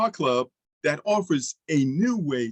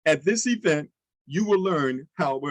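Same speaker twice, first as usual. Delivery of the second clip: too fast take. Shown as a demonstration. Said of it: "I kinda said it too fast".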